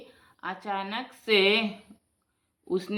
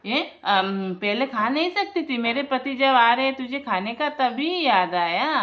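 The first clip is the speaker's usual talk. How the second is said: scolding mother-in-law; 4 semitones higher, 5 dB louder than usual. Acted.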